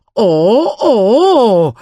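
high, wailing little oh oh; dismayed. Acted. Annie finding the chimp raided their picnic basket, high wailing dismay. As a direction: mourn the lost eggs.

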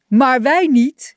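high, slow and loud together; shouted in chorus. A narrator's reading. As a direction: shout it out gleefully as one. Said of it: "riepen zijn vrienden in koor".

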